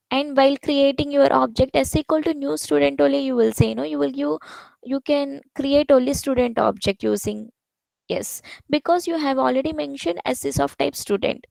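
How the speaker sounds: hurried, energetic teacher explaining; rapid explanation. Real, not acted. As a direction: rattle through the explanation without slowing for the listener. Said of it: "when you speak so fast".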